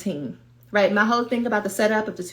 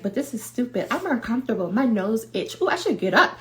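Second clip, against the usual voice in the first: lightly voiced inner heckler, rising in pitch; a hint of fussy, restless self-doubt; nagging inner voice; 3 semitones higher, faster than usual. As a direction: nag yourself out of sitting still. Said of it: "then that voice is like".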